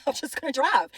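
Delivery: said through a brief laugh. Real, not acted. Woman laughing at her own plan to just drive, laughing. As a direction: let a little laugh into it.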